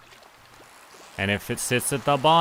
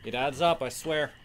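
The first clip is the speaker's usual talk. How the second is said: soft, strained counting while exercising; quiet breathless rep count; straining through squats; 10 dB quieter, much slower than usual. Real, not acted. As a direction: count the reps under your breath as you work. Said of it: "we're doing squats".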